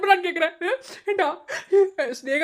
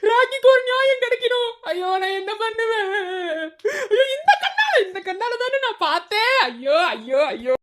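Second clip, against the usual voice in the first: sing-song wail. Acted. Rocky wailing over what his eyes saw, sing-song.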